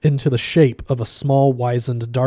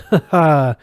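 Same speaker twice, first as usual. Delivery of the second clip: polite laugh; 4 semitones higher, 6 dB louder than usual. Acted. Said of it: "a polite little waiter's laugh".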